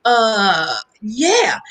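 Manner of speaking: a high, breathless yes; startled yes. Retold or imitated. Teen agreeing to travel with Prince, high surprised blurt. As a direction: blurt out yes before thinking.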